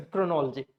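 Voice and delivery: chronology as kro-NOL-jee; chronology squeezed to three syllables; stressed NOL in chronology. Shown as a demonstration. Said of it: "Nol should be clear".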